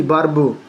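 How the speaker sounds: "बर्ब" with a short neutral vowel before r. Shown as a demonstration. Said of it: "ई का उच्चारण आ होता है". ("बर्ब" में ई का उच्चारण अ)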